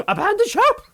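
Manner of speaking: loud, very high-pitched cry of alarm; mock command shout. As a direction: call it out like a hammed-up ship's order. Mock sci-fi command called out.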